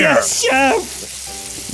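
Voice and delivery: high yes-chef cook voice; mock line cook. Kitchen staff answering the chef in a high voice.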